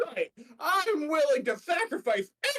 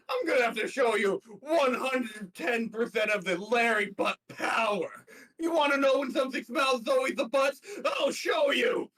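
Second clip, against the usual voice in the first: shouted villain threat; 4 semitones higher than usual. Acted. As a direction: roar it like a cartoon villain. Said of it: "villain monologue for Larry".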